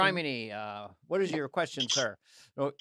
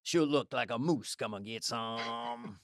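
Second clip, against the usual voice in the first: redneck comedian; 2 semitones lower, 3 dB quieter than usual. Acted. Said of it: "Here's a non-thinker".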